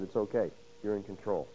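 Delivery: soft, low words of acceptance; voicing a worshipper's quiet trust; calm surrender. Job's surrender to God, voiced softly.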